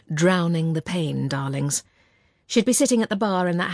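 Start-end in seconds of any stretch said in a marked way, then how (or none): 0.1-1.8 mother's toast, darlings. Retold or imitated. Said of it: "another of our mother's sayings".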